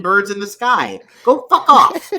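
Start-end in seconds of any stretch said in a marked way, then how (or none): 1.2-2.1 loud, high angry outburst. Real, not acted. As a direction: shout it in disgust. Angry at bird shooting.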